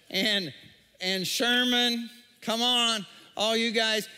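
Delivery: imitating shepherds calling out to their sheep; çobanlar gibi seslenme. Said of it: "they called out to their sheep".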